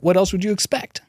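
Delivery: sarcastic resignation. Retold or imitated. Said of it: "just another day".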